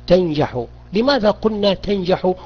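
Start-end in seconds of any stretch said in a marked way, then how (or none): 0.1-0.6 example sentence. Shown as a demonstration. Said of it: "أقول له".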